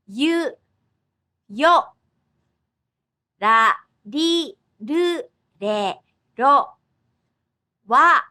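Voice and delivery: each syllable spaced and clear, a-i-u-e-o; reciting kana syllables. Shown as a demonstration. Teacher leading learners through the syllable chart, paced recitation. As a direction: recite the kana rows slowly, one beat each. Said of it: "let's say Japanese syllables in the order".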